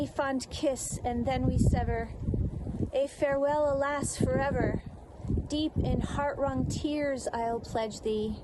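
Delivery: understated recitation of a parting poem; poem recital. Acted. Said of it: "I'm going to recite two verses".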